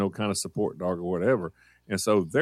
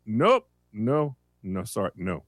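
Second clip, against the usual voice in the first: put-on German accent; 3 semitones higher, 3 dB louder, slower than usual. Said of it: "she has a German accent".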